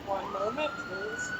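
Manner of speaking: "One moment, please" with a soft "moment" and a leap way up on "please"; a hammed-up phone-queue announcement that squeaks up high at the end; phone hold voice. Shown as a demonstration. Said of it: "actually my best impression".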